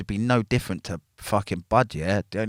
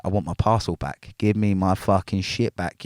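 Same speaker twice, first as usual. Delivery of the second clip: louder, heated demand for the parcel, replayed; retold angry demand; 6 dB louder than usual. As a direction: relive yelling at the guards, a bit louder. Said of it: "is what I'm going on now".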